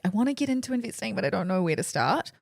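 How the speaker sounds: a hint of an eager novice; mock beginner. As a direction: play the confused beginner lightly. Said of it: "spring chickens that are like".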